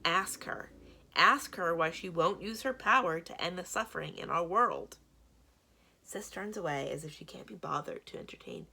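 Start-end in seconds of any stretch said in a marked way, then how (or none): 0.0-0.7 urgent plea. Acted. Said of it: "Blue urging Jax". 1.1-5.0 loud, pleading insistence; desperate plea. Acted. Weak Blue urges Jax to question Sis, loud desperate plea. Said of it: "Blue pleading desperately".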